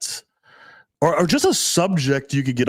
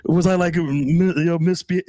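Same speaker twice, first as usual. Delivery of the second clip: lightly voiced girlfriend, pitched higher; guessing girlfriend; 5 semitones higher than usual. Girlfriend guessing at her misbehavior, lightly imitated. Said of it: "and she's guessing".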